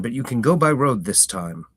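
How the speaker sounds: country farmer shooing a stranger off his lane; gruff farmer. Acted. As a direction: warn off a stranger, firm and blunt. Farmer voiced in story.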